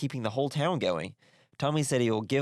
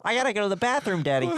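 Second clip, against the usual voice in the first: put-on whiny kid; 10 semitones higher, 3 dB louder, faster than usual. Kid in back seat.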